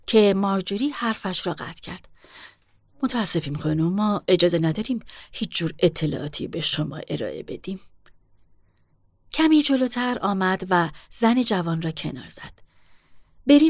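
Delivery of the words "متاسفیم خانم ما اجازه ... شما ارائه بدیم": lower, curt refusal of a stern manager; stern hotel manager. Acted. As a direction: speak down to her, unmoved. Marjorie's lowered clerk voice.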